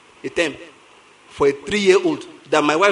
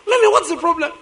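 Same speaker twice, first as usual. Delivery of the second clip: higher mock mother asking; a hint of mom's concern; imitating mother; 10 semitones higher than usual. Daughter crying, wife asks.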